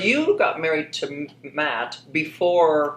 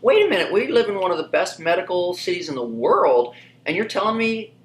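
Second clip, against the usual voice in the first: incredulous; 3 semitones higher than usual. Retold or imitated. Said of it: "And I'm like".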